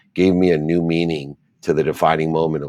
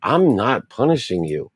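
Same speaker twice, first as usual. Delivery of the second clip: soothing mother; 7 semitones higher than usual. Retold or imitated. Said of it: "And she said".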